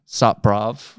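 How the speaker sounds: London roadman accent sup bruv; MLE accent. Shown as a demonstration. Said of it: "strong, like, M L E accents".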